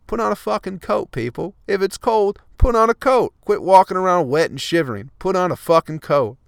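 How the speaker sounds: high, loud exasperated shouting; frustrated shouting. Real, not acted. Vlogger yelling at shivering people downtown, exasperated shout. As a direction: yell it at everyone shivering outside. Ranting order to the public.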